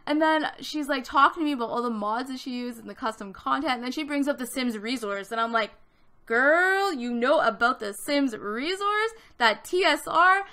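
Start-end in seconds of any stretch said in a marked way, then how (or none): 6.3-10.4 put-on loud, drawn-out delighted "girl"; impressed and happy. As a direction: gush slowly in thrilled recognition. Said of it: "I was so impressed and happy".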